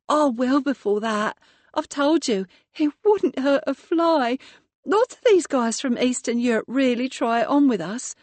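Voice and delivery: lightly voiced young hotel worker, chatty; a hint of an eager young woman opening up; young woman's voice. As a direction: Maria confiding to the detective, lightly voiced. Maria tells her story.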